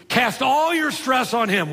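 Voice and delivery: your leaned on, slow, ending in a fall; slow down and hit your; stress on your. Shown as a demonstration. Pastor restates the verse, slowly stressing your. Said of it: "literally throw that stuff".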